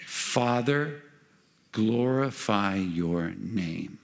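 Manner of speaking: slow, measured prayer; solemn prayer. Shown as a demonstration. Preacher modelling a prayer for any trouble, slow and solemn. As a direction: draw each word out reverently.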